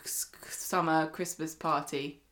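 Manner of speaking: soft whisper; breathy hushed words. Real, not acted. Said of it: "whispered aside".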